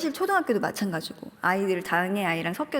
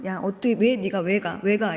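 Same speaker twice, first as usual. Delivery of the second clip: indignant sister. Retold or imitated. Sister protesting to her sibling about the meeting, mild mock outrage. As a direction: echo her sister's outraged "why are you going". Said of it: "이러면서 막 난리가 났는데".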